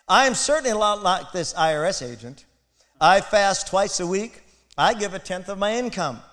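lightly voiced self-righteous Pharisee; smug Pharisee prayer. Preacher mimics the Pharisee bragging of fasting, mock-proud. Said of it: "prayed this prayer".

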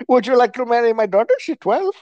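a hint of the mocked clerk; mock hotel clerk. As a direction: keep the put-on clerk voice going. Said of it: "who talks like this".

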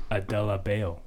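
"Adebayo" said as "Adelapayl" with an L sound; L inserted. Real, not acted. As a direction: say "Adebayo" with a stray L, like "Adele-bay". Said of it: "where's the L?".

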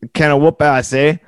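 Canadian accent on request. Shown as a demonstration. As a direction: say it like a Canadian with a rising eh. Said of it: "you gotta say it one time for me".

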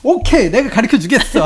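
laughing, mock confident; cocky reply. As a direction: say it full of yourself, chuckling. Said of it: "하면서".

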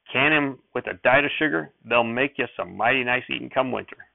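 folksy sheriff voice toned down a little. Acted. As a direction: offer the plants a bit shyly. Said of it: "his voice wasn't so loud".

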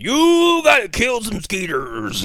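high, slow mock rallying cry; chief's rallying order. Co-host mimicking the chief sending rangers out, hammed-up rallying. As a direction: stretch the first word high, like a hammed-up commander. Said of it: "He gives this inspirational speech".

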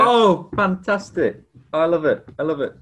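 real delight. Real, not acted. Hearing he stayed in character, truly delighted. Delighted reaction to the co-host's answer.

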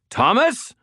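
high, urgent scream of a name; screamed warning. A narrator's reading. Wizard warns Thomas of closing ghouls, high scream. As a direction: scream to get his attention. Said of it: "I screamed".

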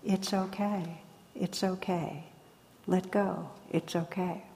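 reassuring. Retold or imitated. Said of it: "the wise voice saying so reassuringly".

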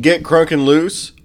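radio DJ. Retold or imitated. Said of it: "I can take".

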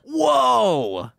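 high, drawn-out reaction; real astonishment. Real, not acted. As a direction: react as if taken aback. Reacts to startling confession.

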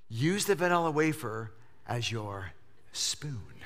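low, soft, near-whispered last word; wife's soft instruction. Retold or imitated. Pastor imitating his wife offering a cookie as a spoon, soft and hushed. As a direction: hand him the odd idea gently, trailing to a whisper.

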